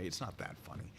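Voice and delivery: under-the-breath aside; whispered aside. Real, not acted. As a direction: mutter it, almost voiceless. Muttered self-deprecating aside.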